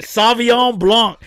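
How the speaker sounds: mock French-accented wine name; imitated French accent. Teasing a friend over his wine, mock French accent. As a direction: mimic his fancy French pronunciation. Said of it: "Look how he said it".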